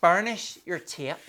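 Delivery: lightly put-on Irish accent; a touch of mock Irish. Shown as a demonstration. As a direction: demonstrate with a jokey Irish lilt. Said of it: "in an Irish accent".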